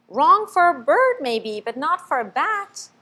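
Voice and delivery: high, loud start; knowing young bat. A narrator's reading. Bat answers Stellaluna, high and emphatic. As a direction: correct her gently but firmly.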